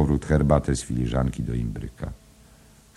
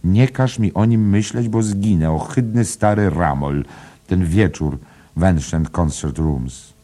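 high, loud begging protest; pleading; 5 semitones higher, 5 dB louder than usual. A narrator's reading. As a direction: beg her to stop, dramatically disgusted. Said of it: "lecz błagała dalej".

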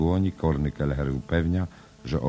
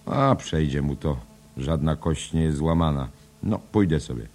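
louder, brisk jovial voice; hearty cabman; 3 semitones higher, 4 dB louder than usual. Acted. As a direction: shrug it off cheerily and loudly. Kelleher voiced in read drama. (głośno i wesoło)

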